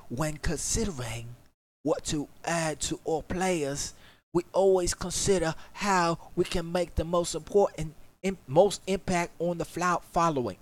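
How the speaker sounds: British accent. Shown as a demonstration. Streamer reads the developer's notes aloud in a British accent. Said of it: "I gotta do it in a British accent".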